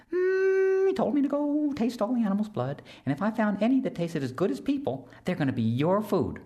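very high, buzzing insect voice; high whiny mosquito, eager to help; tiny mosquito voice. Acted. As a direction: squeak it like a little mosquito.

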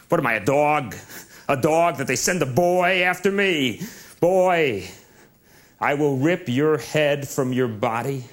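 a hint of a menacing giant; Goliath, scornful. Goliath threatens the boy.

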